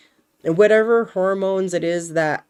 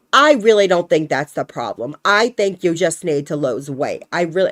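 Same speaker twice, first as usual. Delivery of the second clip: nasal New York Fran Drescher impression; mock a dismissive doctor in a Fran Drescher accent; 4 dB louder than usual. Mocking the doctor who says lose weight, Fran Drescher accent. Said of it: "I just like using that accent for it sometimes".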